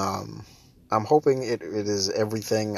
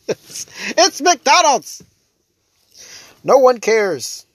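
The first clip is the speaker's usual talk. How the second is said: slow, high, louder; exasperated; 12 semitones higher, 8 dB louder, much slower than usual. Real, not acted. Ranting about snobs, slow exasperated emphasis. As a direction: drag each word out, fed up.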